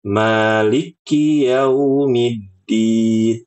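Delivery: Maliki Yaumiddin with a doubled k; wrong doubled kaf. Shown as a demonstration.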